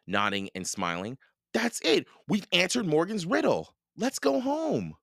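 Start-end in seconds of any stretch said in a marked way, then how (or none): 1.5-5.0 put-on high-pitched, pleased child; triumphant boy. A narrator's reading. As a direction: announce the solved riddle high and eagerly. Boy celebrates solving the riddle.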